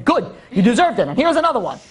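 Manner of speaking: laughing mock government; mock approval, laughing. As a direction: chuckle through a smug approval. Government mockingly approving the beating.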